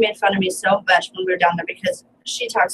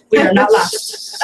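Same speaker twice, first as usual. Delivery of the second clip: slow; 12 semitones higher, 4 dB louder, much slower than usual. Retold or imitated. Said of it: "I'm over here like".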